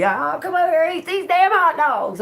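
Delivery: high, loud calling-out to customers; loud, high food-stall pitch; carnival barker. Shown as a demonstration. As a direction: holler people over to the stand. Demonstrates calling customers over.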